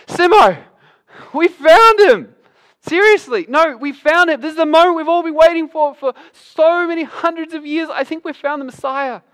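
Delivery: a friend who has run all the way to share it; breathless excitement. Acted. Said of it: "He's so excited".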